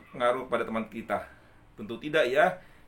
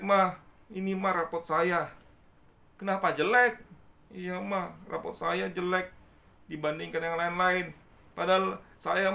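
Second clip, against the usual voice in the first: put-on higher, whiny child voice; complaining child; 5 semitones higher than usual. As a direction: play a sad kid showing mum a bad report card. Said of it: "Seorang anak ini melapor ke ibunya". (anak mengadu ke ibunya, suara anak kecil lebih tinggi merengek)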